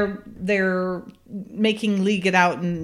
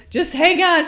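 mock urgent; 7 semitones higher, 5 dB louder than usual. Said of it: "He goes".

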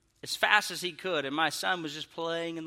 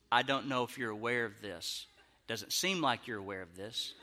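restrained complaint; 6 semitones lower, 7 dB quieter than usual. Retold or imitated. Restrained approach to the mother.

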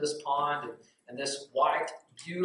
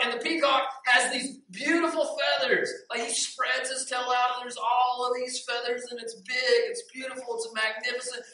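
excited parrot singing another bird's praises; awestruck raving; 8 semitones higher than usual. Acted. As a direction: rave about it with rising wonder, pitched way up. Retakes parrot's line, awed by peacock.

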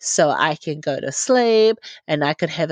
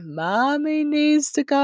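playful mock-chiding, pitched up; teasing husband; 7 semitones higher than usual. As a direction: imitate a husband's knowing hint. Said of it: "because he's like".

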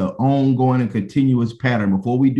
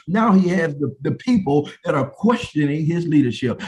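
raised, insistent pulpit voice; fervent preaching; 5 semitones higher than usual. Real, not acted. Preacher to congregation on Moses under attack, fervent preaching. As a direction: preach it with building urgency.

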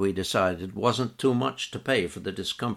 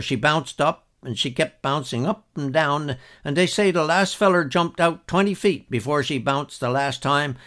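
lightly voiced old Newfoundland storyteller, a bit higher and louder; old outport storyteller; 4 semitones higher, 4 dB louder than usual. Old outport man telling a story, lightly voiced, lively. Retells Mr Anstey's tale.

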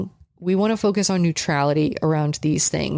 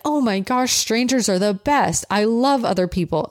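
mildly excited, raised pitch; pumped-up puppy; 4 semitones higher than usual. Retold or imitated. Puppy who likes being petted by strangers, mildly excited. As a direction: lightly voice a delighted puppy. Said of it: "super pumped up".

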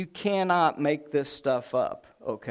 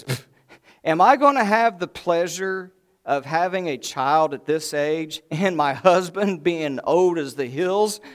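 louder, scoffing mock disbelief; 5 dB louder than usual. Sarah eavesdropping in the tent scoffs at the news, mock-incredulous. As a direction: puff it off, then voice amused incredulity. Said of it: "she starts to laugh herself".

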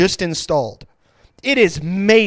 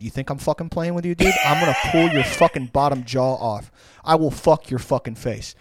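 mock threat; 4 semitones lower than usual. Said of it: "verbal threats that are very creative".

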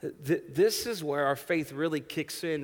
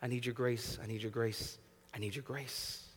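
humble prayer; 5 dB quieter than usual. Shown as a demonstration. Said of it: "You need to pray".

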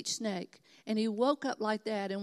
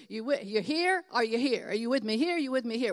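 movie quote; 6 dB louder than usual. Retold or imitated. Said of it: "that Tom Cruise movie? He says".

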